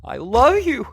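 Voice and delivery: high, loud deranged scream; shrieking, obsessed and unhinged; screamed declaration. A narrator's reading. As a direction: scream it like a madwoman, voice leaping way up. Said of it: "and screaming".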